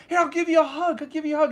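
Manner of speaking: high, cutesy bug voice; consoling little bug. Retold or imitated. Bug tries to hug its screaming friend, high and eager. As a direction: offer comfort as a tiny eager bug.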